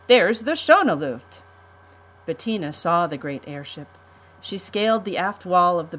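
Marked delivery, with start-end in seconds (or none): 0.1-1.4 loud, high, eager call; excited call. Acted. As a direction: call out to the ship you love. Boy spots his home ship.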